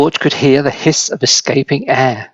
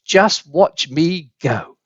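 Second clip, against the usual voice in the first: gloating; 2 semitones higher, slower than usual. Acted. Grandma gloating while rising.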